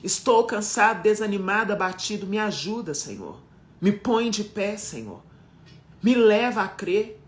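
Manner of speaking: clamor sofrido a Deus, cada frase caindo no "Senhor"; oração clamando. Acted. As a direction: ore como quem está no fim das forças. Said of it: "Não tenho vergonha de gritar pra ele". (pregadora mostra como clamar a Deus, oração sofrida)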